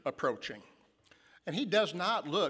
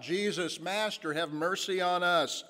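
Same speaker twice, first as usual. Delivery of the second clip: pleading call, a touch raised; crying out for mercy; 5 semitones higher than usual. Acted. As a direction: call out to him, begging for mercy. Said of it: "he begins to cry out".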